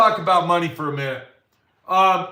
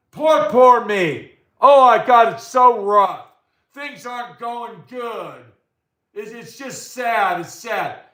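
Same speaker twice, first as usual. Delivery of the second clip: mock whining, drawn-out self-pity; hammed-up poor-me moan; whiny complaining friend; 2 semitones higher, 3 dB louder, slower than usual. Mimicking his complaining friend on the phone, whiny. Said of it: "all he does is complain about".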